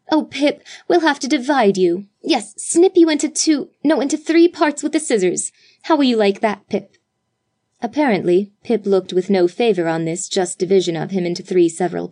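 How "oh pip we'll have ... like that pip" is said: put-on higher teasing chatter to the baby; lightly voiced girls teasing the baby; mild playful excitement. A narrator's reading. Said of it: "each striving to outbid the others".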